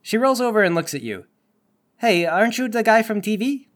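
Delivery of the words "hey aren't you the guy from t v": put-on higher-pitched suspect in a Space Mexico accent. Captured suspect recognising a TV celebrity, Space Mexico accent. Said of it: "what kind of accent is this".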